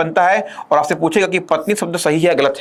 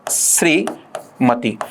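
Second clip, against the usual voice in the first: श्रीमती stretched very slowly, syllable by syllable; श्रीमती drawn out slowly as a teaching example; slow demo; 4 semitones lower, much slower than usual. Shown as a demonstration. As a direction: spell out श्रीमती with your voice. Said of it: "ये मती गलत होता है".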